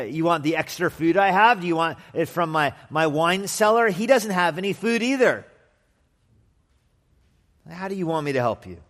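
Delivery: high-pitched, exasperated protest; sarcastic, put-upon king. Acted. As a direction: push back loudly at an impossible request. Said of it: "kind of as a sarcastic expression".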